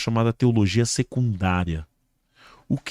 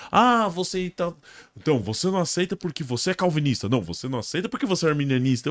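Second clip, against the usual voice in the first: lightly mocking, higher-pitched quotes; imitating accusers; 5 semitones higher, 3 dB quieter, faster than usual. Critics accusing the guest, lightly mimicked. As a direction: rattle off the critics' objections.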